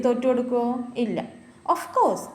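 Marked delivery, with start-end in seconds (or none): 1.7-2.2 a high, bright sure yes; confident reply. Acted. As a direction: answer the bear without fear. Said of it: "said Lily". (ധൈര്യത്തോടെ ലില്ലി)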